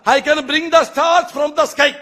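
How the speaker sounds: slow, high, hammed-up boast in English; mock grand promise, high and slow; mocking politician boast. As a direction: drag it out like a grand empty promise. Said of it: "అంటాడు వీడు".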